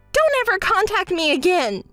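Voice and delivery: high, indignant parting shot; huffy, emphatic dismissal; angry outburst. Acted. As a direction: storm off with a high-pitched retort. Storms off, breaking off friendship.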